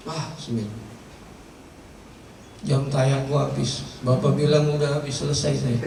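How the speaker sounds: a worn-out woman, quietly winding down; weary dying wife. Acted. Dead wife answers Smith.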